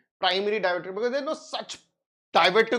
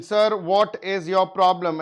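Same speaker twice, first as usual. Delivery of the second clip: mock stern question; 2 semitones higher, 6 dB louder, slower than usual. Doctor quoting himself to patient.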